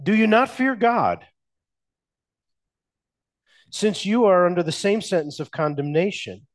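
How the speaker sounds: a lightly voiced condemned man scolding his fellow; rebuking criminal. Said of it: "rebuked him, saying".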